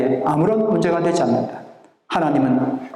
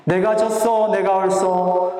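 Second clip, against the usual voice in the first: Gyeongsang dialect; 3 semitones higher, slower than usual. Shown as a demonstration. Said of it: "경상도 말로 하니까".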